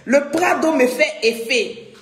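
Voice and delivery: said through a laugh. Real, not acted. Host laughing to viewers about the effect Prado has on her. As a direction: let the laugh spill into the words. Laughing, then repeats it plainly.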